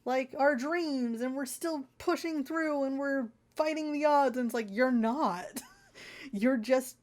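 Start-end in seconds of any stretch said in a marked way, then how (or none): 0.0-4.4 mock earnest. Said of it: "they're still being like".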